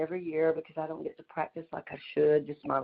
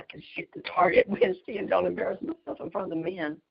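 whisper; 3 semitones higher than usual. Real, not acted. Confides fear to friends.

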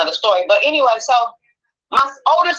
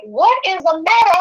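high, insistent questioning; alarmed mother; 10 semitones higher than usual. Retold or imitated. Mother begging her crying daughter to explain, alarmed. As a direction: press urgently for an answer.

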